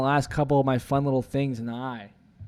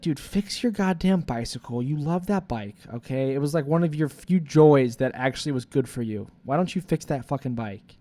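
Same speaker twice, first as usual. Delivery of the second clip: future self scolding; 5 dB louder than usual. Retold or imitated. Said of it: "future self would probably be fucking screaming at me".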